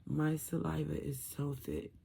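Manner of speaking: garbled, muffled post-surgery speech. Real, not acted. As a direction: talk through a swollen throat, muffled. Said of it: "feels like I'm talking garbled".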